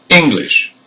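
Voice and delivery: "English" stressed on ENG, second syllable light; first-syllable stress. Shown as a demonstration. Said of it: "the first syllable".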